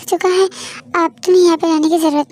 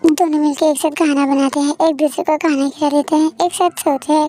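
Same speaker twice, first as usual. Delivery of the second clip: calm, even storyteller voice; story narration. A narrator's reading. Narrator telling listeners how a singer and Devi spent the week, calm storytelling. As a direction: narrate the happy week gently.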